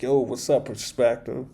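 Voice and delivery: put-on relaxed like an old friend calling; a hint of calm friend on the phone. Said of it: "he was very calm".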